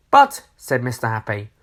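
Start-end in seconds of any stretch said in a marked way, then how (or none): 0.1-0.5 surprised. Acted. Mister Happy protests.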